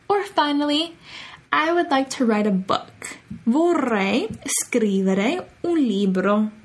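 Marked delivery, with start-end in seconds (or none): 3.5-6.5 each word drawn out for learners; very slow model phrase. Shown as a demonstration. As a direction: say it slowly for students to echo.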